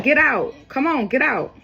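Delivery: mock impatient ordering. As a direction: imitate someone hurrying her out. Retold men ordering her out.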